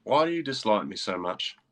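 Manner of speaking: put-on a rock star's line in a light British accent. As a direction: give him a lightly held Manchester-style British accent. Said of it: "That was a fun accent for it".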